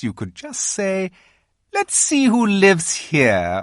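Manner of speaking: high, sly persuading voice; queen coaxing Edmund to keep a secret, sly. A narrator's reading. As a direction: win the boy over sweetly.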